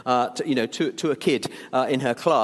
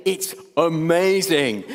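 put-on smug child; 3 dB louder, slower than usual. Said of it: "like that, and we'd go off all smug".

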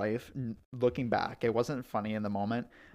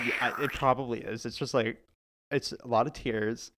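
hushed aside. Real, not acted. Talking quietly over playing video.

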